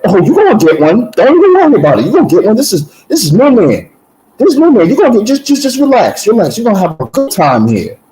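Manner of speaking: high-pitched, animated imitation of an inmate; excited inmate welcome.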